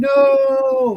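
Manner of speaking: mock, very high, stretched-out, drawn-out scream. Retelling reading the book's ending as a kid: imitating his own past scream.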